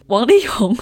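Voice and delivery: real voice break on the name; voice cracking. Real, not acted. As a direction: voice cracks mid-phrase. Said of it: "我刚刚破音。".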